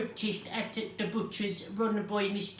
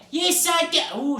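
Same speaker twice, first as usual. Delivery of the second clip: high, loud shouted reply; shouting; 8 semitones higher, 7 dB louder than usual. A narrator's reading. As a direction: shout the answer back. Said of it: "shouted Mister Noisy".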